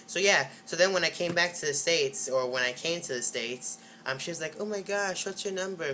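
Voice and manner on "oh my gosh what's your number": higher-pitched, lightly voiced eager girl; a hint of a gushing cousin; imitating eager cousin. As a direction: lightly mimic her pushy excitement in a higher pitch. Retelling cousin's eager greeting.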